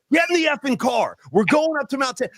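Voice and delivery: high-pitched mock yell at a friend; retold yelling. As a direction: act out ordering him about without full volume. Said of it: "I started yelling at him".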